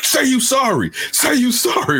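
high, commanding daycare worker; mock bossy daycare lady. Daycare woman ordering kid to apologise, mock bossy. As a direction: make the child apologise now. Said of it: "she's like".

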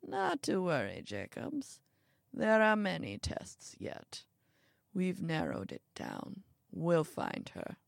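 put-on soft, unhurried elderly reassurance; lightly voiced calm old man; reassuring old man.

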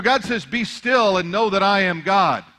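normal talking voice

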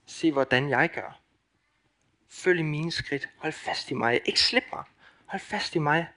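tender Jesus voice. Acted. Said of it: "Han siger".

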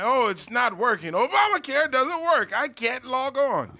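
mock whining complaint. Imitating complainers online, lightly whiny. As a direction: whine a little about the website not working. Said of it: "because people get online".

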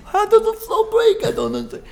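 a hammed-up old Jewish man telling a Disney story; old man Jewish accent. Guest imagines himself at eighty-two, exaggerated old Jewish accent. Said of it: "I'm not doing a very good accent".

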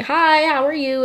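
very high, polite shop greeting; professional customer service voice. Shown as a demonstration. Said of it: "like, a professional customer service voice".

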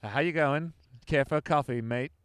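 amateur's put-on Aussie accent; playful, badly faked Australian; mock Australian accent. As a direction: have a go at talking Australian. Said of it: "Let's talk Australian".

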